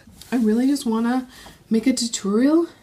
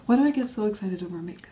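normal talking voice

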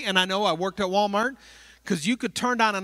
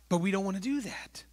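whispered aside; 5 dB quieter than usual. Real, not acted.

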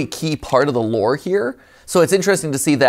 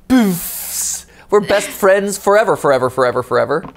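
goofy cute toy voice; 6 semitones higher, 4 dB louder than usual. Pretend. Voicing cute toy friend.

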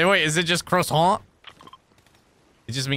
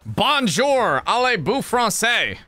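high, hammed-up French accent; mock French phrase; 9 semitones higher, 3 dB louder, much slower than usual. Shown as a demonstration. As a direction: tourist showing off his only French, French accent. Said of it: "I don't speak French".

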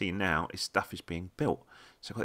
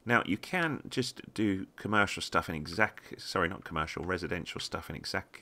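slurring through loose dentures; talking with teeth not quite in; 2 semitones higher than usual. Real, not acted. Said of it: "put my teeth in".

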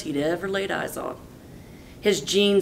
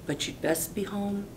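fairy god cow; 3 semitones higher, 8 dB quieter than usual. Acted. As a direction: gently send him off.

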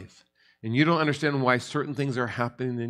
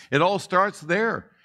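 slow emphasis; 6 semitones higher, slower than usual. Real, not acted. Preacher slows for emphasis.

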